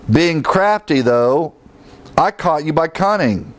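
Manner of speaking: wink at the congregation as you read it; sarcastic. Shown as a demonstration. Preacher reading Paul's words, dripping with sarcasm. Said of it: "Paul again being sarcastic".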